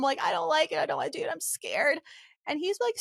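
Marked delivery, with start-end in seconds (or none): 0.2-2.0 high, upset little whine; imitated crying. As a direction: mimic your own tearful protest. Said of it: "I'm, like, crying on the way home".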